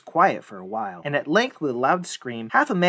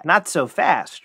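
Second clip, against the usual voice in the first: loud, slow, higher retort; bold defiance; 4 semitones higher, 6 dB louder, slower than usual. Acted. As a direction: stand up to him, unhurried. Youth defies the fiend.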